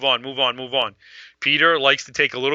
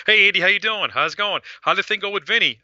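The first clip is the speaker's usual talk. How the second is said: lightly imitated phone greeting, pitched up; a hint of a higher-voiced chatty caller; Gigi; 7 semitones higher than usual. Gigi calls to ask how the thing went, lightly imitated higher voice. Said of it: "Gigi's on the phone".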